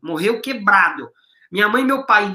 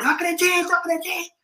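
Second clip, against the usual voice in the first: much higher, a touch of tearful emotion, fading softer; emotional; 10 semitones higher, 4 dB quieter than usual. Retold or imitated. Wife answering the mentor on stage, a touch of tearful emotion. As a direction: let a hint of held-back tears rise.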